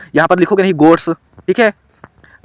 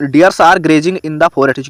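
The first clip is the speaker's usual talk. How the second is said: slow dictation read; much slower than usual. Shown as a demonstration. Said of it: "दूसरा देखो".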